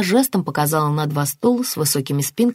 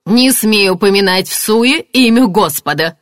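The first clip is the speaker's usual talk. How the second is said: loud, raised, indignant command; outraged rebuke; 4 semitones higher, 7 dB louder than usual. A narrator's reading. Marianna rebuking him for taking God's name, outraged. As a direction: forbid him fiercely.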